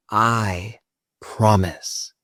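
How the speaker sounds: slow, deliberate affirmations spoken out loud; out loud, slowly. Shown as a demonstration. Guide leads the group aloud, slow and firm. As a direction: say each phrase firmly and slowly. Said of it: "Last time out loud".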